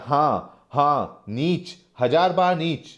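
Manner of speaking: acted angry defiance; defiant shout. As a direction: throw it back in his face. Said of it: "सागर कहता है".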